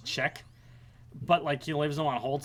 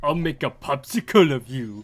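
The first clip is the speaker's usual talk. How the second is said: louder mock villain threat; Frostman; 5 dB louder than usual. Gamer quoting Frostman's voice clips, villain voice. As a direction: play the ice boss taunting. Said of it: "You got Frostman's".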